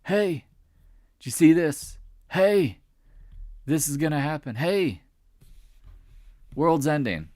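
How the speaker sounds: high-pitched imitation of panicked texters; mock freaking out. Traders text him that the world's ending, mock panic. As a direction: pitch way up, mimic people freaking out. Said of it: "People freaking out".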